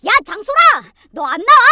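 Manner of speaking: loud, high yell through a door; angry shout. A narrator's reading. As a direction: shout for your sister to come out. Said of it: "쾅쾅 두드리며 소리쳤어요". (방문 밖에서 지르는 성난 고함)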